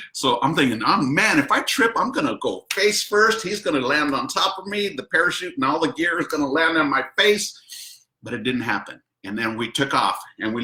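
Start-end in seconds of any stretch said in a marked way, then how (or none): 0.8-8.0 much higher, rushing inner worry; picture yourself falling face first; anxious thoughts. Retold or imitated. Retold fear of tripping.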